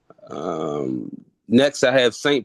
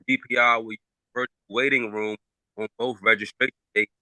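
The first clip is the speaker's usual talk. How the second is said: breaking up; faster than usual. Real, not acted. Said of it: "Quentin, I think you're breaking up".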